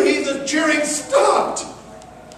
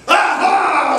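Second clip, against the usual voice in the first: pirate's aha; 3 semitones higher, 4 dB louder than usual. Acted. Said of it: "said Joe".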